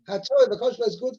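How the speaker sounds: usual speaking voice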